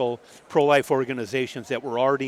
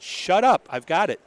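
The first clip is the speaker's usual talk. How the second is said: higher, louder mock yell of shut up; retold shout; 5 semitones higher, 4 dB louder than usual. Police officer to the table, still talking, half-shouting at them to stop. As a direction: snap at the chatter to cut it off. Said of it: "And they kept talking, and she said".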